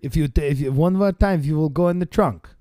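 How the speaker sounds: mock Russian accent; threatening in a Russian accent. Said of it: "Why is he Russian?".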